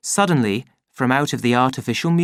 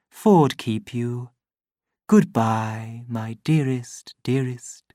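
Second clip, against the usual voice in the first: fading loving goodbye; slower than usual. Acted. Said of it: "loving goodbyes from the voice".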